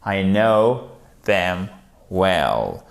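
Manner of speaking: "know" said with no k sound, word by word; spaced-out teacher's model with a silent k in "know"; silent k demonstration. Shown as a demonstration. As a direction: say "I know them well" in separate pieces, "know" starting on n. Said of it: "vous ne prononcez pas le que ici".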